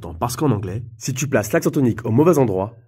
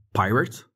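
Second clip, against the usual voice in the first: pirate with the first syllable stressed, PI-rate; 3 dB quieter than usual. Shown as a demonstration. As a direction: lean on the start of pirate. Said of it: "accentuer la première syllabe". (accent sur la première syllabe de pirate)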